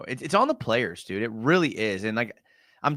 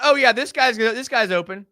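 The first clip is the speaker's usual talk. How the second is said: mock QB thought; 8 semitones higher, 6 dB louder than usual. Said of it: "you thought".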